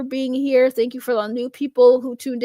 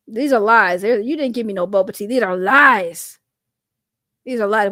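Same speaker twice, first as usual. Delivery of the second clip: mock accusation; 3 semitones lower, 4 dB louder than usual. Real, not acted. Accusing donor over missing Venmo money.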